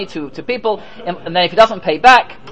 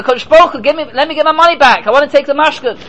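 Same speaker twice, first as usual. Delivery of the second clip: calling out; 4 semitones higher, faster than usual. Retold or imitated. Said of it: "you're both shouting out to me".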